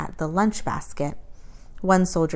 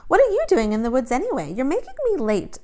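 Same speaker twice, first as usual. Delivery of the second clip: impatient; 8 semitones higher, faster than usual. A narrator's reading. Girl complains to soldier.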